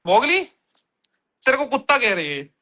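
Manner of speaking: sharp rising call of the dog's name. Real, not acted. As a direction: call out to get his attention. Calling his dog again.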